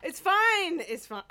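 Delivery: tipsy, laughing. Real, not acted. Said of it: "because I'm so drunk now".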